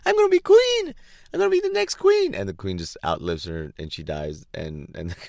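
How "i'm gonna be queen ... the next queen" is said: shrill, very high, loud mock Camilla. Mocking Camilla waiting to be queen, shrill and very high. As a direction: squeal it like an impatient heir, very high and loud. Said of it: "Camilla just spends her life going".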